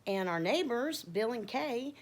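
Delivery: high, happy announcement. Retold or imitated. Telling Miss Joyce who invited them, happy. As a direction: bubble over with the news, pitch lifted. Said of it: "I'm all happy".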